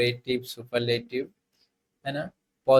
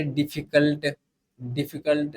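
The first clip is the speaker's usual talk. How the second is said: डिफिकल्ट said with a small hitch between its parts; डिफिकल्ट, carefully broken by a brief catch; slight pause inside; 2 semitones higher than usual. Shown as a demonstration. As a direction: demonstrate डिफिकल्ट, halting slightly mid-word. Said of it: "थोड़ा सा रुक के बोलते हैं".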